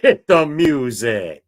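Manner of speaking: lightly boastful wrestler calling for his entrance; Ravishing Rick Rude. Retold or imitated. Host echoes the wrestler's cue, slow and strutting. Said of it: "Ravishing Rick Rude right here".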